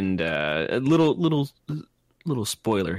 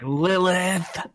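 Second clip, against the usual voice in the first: excited exclamation; 8 semitones higher than usual. Retold or imitated. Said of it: "You're like".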